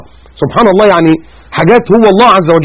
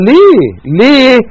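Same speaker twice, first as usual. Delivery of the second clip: emphatic why; 7 semitones higher, much slower than usual. Real, not acted. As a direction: fire the question at them. Preacher demands why, loud. (سؤال بصوت عالٍ حاد)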